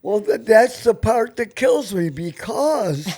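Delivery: normal talking voice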